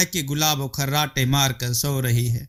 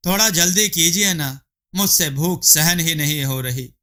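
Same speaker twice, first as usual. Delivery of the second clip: eager hungry wife; 2 semitones higher than usual. Acted. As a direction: coax him to hurry, greedy and pleased. Gulabo delighted, begging food.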